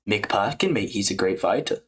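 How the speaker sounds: put-on British fighter voice; casual mock British praise; Aspinall. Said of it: "like, the Aspinall voice".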